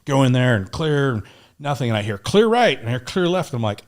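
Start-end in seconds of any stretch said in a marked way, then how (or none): 2.2-2.8 higher room-clearing call; retold teammate's shout, raised pitch; imitated call-out. 3.0-3.5 imitated call-out. Retold room-clearing call from teammates.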